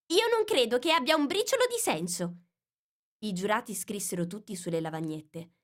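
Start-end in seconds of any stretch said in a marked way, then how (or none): 0.1-2.4 scornful. Acted. Alice's retort.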